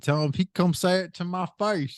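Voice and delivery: goofy white guy. Retold or imitated. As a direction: imitate a goofy guy acting tough. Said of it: "these, like, goofy white guys".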